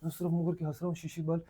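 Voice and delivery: high-pitched, laughter bubbling into the words; laughing retelling. Real, not acted. Storyteller recalling how he turned away to laugh, amused. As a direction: tell it through a laugh. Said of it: "मुझे हंसी आने लगी".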